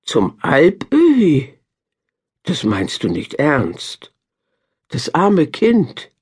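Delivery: slow, stunned gasp of disbelief; shocked disbelief. A narrator's reading. Babel hears where the child goes, slow and shocked. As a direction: drag it out in horror. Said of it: "rief Babel".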